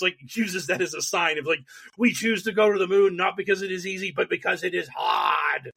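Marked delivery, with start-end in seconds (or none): 2.0-5.7 lightly imitated Boston accent, speech cadence; a hint of a JFK-style Boston accent; Kennedy Boston accent. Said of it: "In that Kennedy murderous Boston accent".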